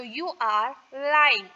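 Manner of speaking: each word spaced out slowly for students; slow, clear classroom dictation. Shown as a demonstration. Teacher dictating model sentence.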